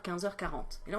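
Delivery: normal talking voice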